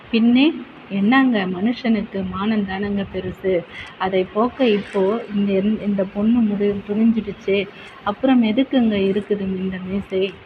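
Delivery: father raging over his daughter's shame; indignant outburst. Acted. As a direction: bluster about honour. Angry father then scolding wife.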